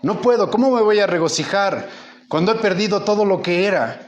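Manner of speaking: high, pleading cry of a man who has lost everything; anguished dying father. Retold or imitated. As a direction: plead like a broken old man facing death. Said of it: "y dice".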